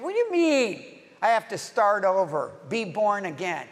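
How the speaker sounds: mildly exasperated, imitated protest; frustrated Nicodemus. Preacher voicing Nicodemus objecting to Jesus, mildly frustrated. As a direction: push back in acted disbelief. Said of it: "He is frustrated at Jesus".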